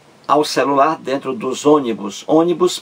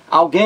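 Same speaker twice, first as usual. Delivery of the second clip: "alguém" with "guém" held long and high; lengthened last syllable; 4 semitones higher than usual. Shown as a demonstration. Teacher showing which syllable lasts longer, drawn-out "guém" in "alguém". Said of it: "aquela em que você demora mais".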